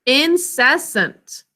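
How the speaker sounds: "Incessant" slowly, split into three syllables. Shown as a demonstration. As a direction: sound out "Incessant" as in, cess, ant. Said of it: "Three syllables".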